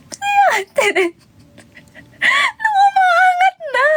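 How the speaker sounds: high, wailing mock cry on the ride. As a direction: wail it like a scared rider. Imitating friend crying on ride. (kunwaring umiiyak na palahaw)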